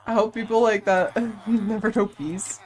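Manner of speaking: amused, laugh breaking in mid-sentence. Real, not acted. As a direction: let a real laugh interrupt the curse. Laughs while cursing such players.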